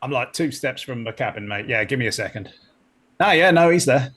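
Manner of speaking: casual, muddled Cockney; attempted Cockney accent. Crewman checks on his pet spider, attempted Cockney accent. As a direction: answer in a rough Cockney. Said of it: "can you do the Cockney accent".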